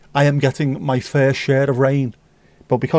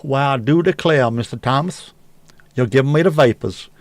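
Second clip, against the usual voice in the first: put-on Southern belle accent. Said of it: "deep South accent".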